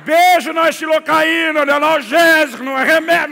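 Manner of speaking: furious shout against the kiss cure; outraged shout. Retold or imitated. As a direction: scream the protest at the mother. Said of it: "Eu quero gritar".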